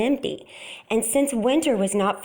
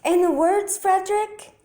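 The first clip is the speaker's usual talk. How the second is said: eager mice; 10 semitones higher than usual. A narrator's reading. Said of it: "mice eagerly asking".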